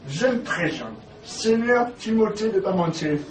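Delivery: put-on lofty old Gascon lord, rolling out his name; Gascon noble accent. To the startled wife, introducing himself in a Gascon lord's accent. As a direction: announce yourself like a Gascon lord. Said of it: "Ta voix? Ton accent?".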